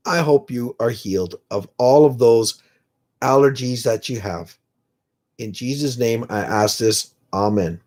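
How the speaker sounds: low, earnest spoken prayer; praying. Real, not acted. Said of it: "pray with me right now".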